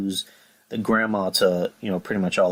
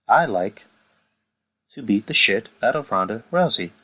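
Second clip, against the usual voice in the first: calm monotone Becky. Retold or imitated. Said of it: "in a very calm and monotone voice".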